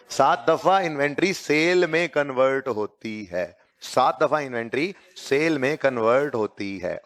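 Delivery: slow, measured teacher's dictation. Acted. Teacher explaining inventory times to students, slow dictation. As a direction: spell out the point phrase by phrase, slowly.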